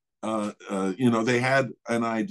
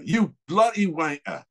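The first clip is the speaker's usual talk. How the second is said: imitated English manager cursing; exasperated mock-English insult; English accent; 4 semitones higher than usual. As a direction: curse him in a put-on English accent. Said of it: "he's the English guy".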